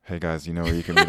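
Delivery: deep DJ-style voice, loudish; radio host voice. Shown as a demonstration. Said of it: "monotone voice just to piss Eric off".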